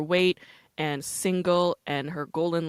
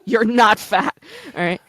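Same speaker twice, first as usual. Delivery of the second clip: emphatic; 6 semitones higher, 13 dB louder than usual. Real, not acted. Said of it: "emphatic reassurance".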